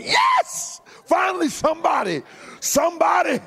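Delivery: high, jubilant shout of relief; excited shout. Retold or imitated. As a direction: cry out in triumph, voice leaping high. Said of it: "I shouted".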